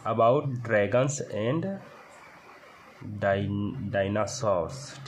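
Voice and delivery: about dragons and read word by word, very slow; slow read-aloud. Shown as a demonstration. Teacher reading the textbook line to class, very slow and deliberate. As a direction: read it out slowly so students can follow. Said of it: "teacher reads English line aloud".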